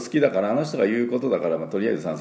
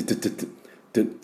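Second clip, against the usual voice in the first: short strong tu bursts; 4 dB quieter, much faster than usual. Shown as a demonstration. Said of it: "短くて強く".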